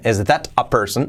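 THAT said with a clear, separate T; "Is that a person?" with the T of "that" fully sounded; non-native pronunciation. Shown as a demonstration. Teacher shows learners what natives don't say, careful THAT. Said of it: "los nativos no dicen".

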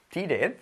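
"tired" slowly as "TEE-red"; spell-read "tired" in Spanish vowels; read as spelt. Shown as a demonstration. Teacher voicing the written word, read as spelt. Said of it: "por escribir mal".

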